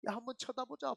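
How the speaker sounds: mock crowd taunting; lightly voiced mocker; jeering. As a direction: sneer at him from the crowd. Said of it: "그렇게 조롱을 합니다".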